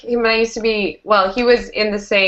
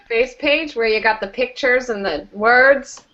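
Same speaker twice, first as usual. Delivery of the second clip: put-on old man voice; 3 semitones higher than usual. Joins the old man bit.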